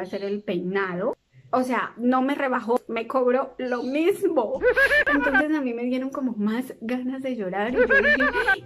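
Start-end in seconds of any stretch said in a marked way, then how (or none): 1.5-8.6 laughing while telling. Real, not acted. Laughing at her own misfortune.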